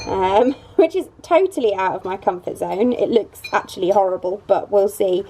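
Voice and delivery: muffled behind a plastic visor. Real, not acted. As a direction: talk through a face shield, muffled. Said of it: "if I sound a bit muffled".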